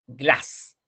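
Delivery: "glass" with a short, open A. Shown as a demonstration. Teacher contrasting two words, "glass" with short open A. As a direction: clip the A in "glass" and keep it open. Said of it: "la A es corta".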